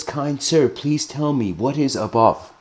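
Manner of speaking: a hint of a kindly elder; gentle old man. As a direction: ask it humbly, like a courteous old man. Old man asks again.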